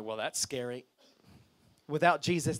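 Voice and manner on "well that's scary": very low, hushed voice of a listener; uneasy aside. Acted. Congregation reacting to talk of demons, low uneasy aside. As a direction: imitate a congregant murmuring under their breath.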